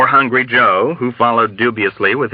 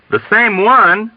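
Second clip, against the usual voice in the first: high, drawn-out question; agitated disbelief, pitched up; quivering excited echo; 12 semitones higher, 4 dB louder, slower than usual. A narrator's reading. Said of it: "quivering with a deep and ominous excitement".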